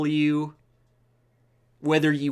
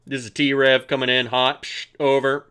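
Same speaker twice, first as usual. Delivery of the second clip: radio it in, hissing between phrases; mock radio transmission; 2 semitones lower than usual. Host playing pilot calling ground control, mock radio voice. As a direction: pretend walkie-talkie call with mouth-made static.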